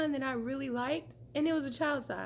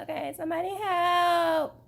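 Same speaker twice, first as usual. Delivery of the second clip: hysterical laugh; 12 semitones higher than usual. Real, not acted. Hat stuck in hair, laughing.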